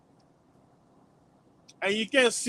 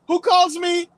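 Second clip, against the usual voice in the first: whiny complaining voice; 4 semitones higher than usual. Retold or imitated. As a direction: beg to go back like a whining slave. Voicing complaining ancestors.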